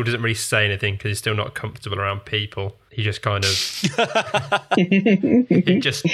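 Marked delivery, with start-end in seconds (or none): 3.5-6.0 breaking into laughter mid-sentence; laughing. Real, not acted. Player laughing while describing Felix's nod, laughing. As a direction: laugh through the words. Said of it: "laughs mid-description".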